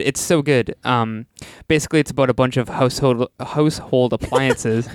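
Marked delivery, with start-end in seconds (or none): 3.4-4.9 sultry. Real, not acted. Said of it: "You got real sultry with that".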